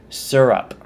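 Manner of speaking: "Syrup" said SUR-up; first vowel of "Syrup" as in "sir"; SUR-up pronunciation. Shown as a demonstration. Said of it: "pronouncing it correctly".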